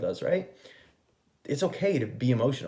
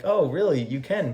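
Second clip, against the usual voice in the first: higher, louder mock-surprised challenge; mock incredulous; 5 semitones higher, 4 dB louder than usual. Answering a noncommittal partner, mock incredulous. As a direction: put on a sceptical "is that so". Acts out sceptical reply to partner.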